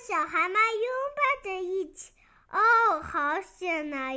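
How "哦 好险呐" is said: slow, dropping mild relief; relieved sigh. Acted. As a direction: let the tension out slowly. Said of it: "爷爷长长地松了一口气". (略带如释重负地慢慢说)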